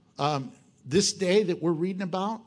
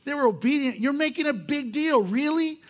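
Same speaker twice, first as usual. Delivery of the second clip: doubting listener; 5 semitones higher than usual. Retold or imitated. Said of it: "And you might be going".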